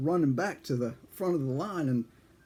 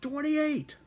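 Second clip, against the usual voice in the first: meek answer; 13 semitones higher than usual. Retold or imitated. Recruit answers clerk.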